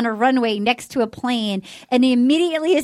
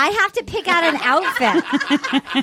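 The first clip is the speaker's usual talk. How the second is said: laughing; 3 semitones higher, slower than usual. Real, not acted. Giggling over TV outfit.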